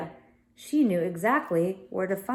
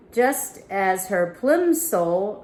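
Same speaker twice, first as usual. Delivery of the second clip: slow reread; much slower than usual. Real, not acted.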